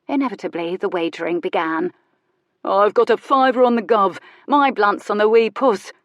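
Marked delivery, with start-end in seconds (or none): 2.6-5.9 betting onlooker. Acted. Crowd wagering.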